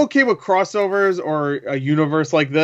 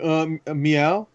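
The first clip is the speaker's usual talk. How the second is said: a softer, hesitant meow that trails up; a quieter, unsure mock meow; second take meow; 3 dB quieter, slower than usual. Mocking the weaker new take with a soft, hesitant meow. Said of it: "this one was more like".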